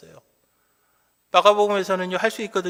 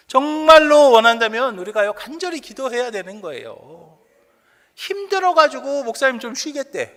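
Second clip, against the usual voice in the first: raised, emphatic preaching voice; forceful preaching; 6 semitones higher, 11 dB louder than usual. Real, not acted. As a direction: press the congregation hard. (목소리를 높여 강조하는 설교)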